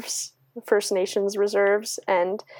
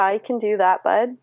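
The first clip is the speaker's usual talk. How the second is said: hammed-up Canadian accent; over-the-top Canadian slang. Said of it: "go super Canadian when you're sick".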